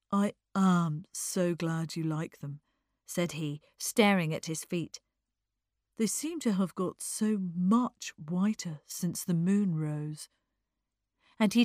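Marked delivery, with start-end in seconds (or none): 0.1-2.6 slow, drawn-out thanks; a touch mournful and languid; lightly voiced sorrowful young man. Eddie answering praise of his socks, faintly mournful. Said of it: "sorrowful young face". 6.0-10.3 slow, dreamy musing; a touch languid, fading at the end; lightly voiced sorrowful young man. Eddie musing on his white socks, faintly mournful. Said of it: "sorrowful young face".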